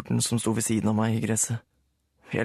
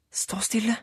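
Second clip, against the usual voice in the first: Sara ordering; 11 semitones higher than usual. A narrator's reading. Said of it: "sa Sara til Rulle".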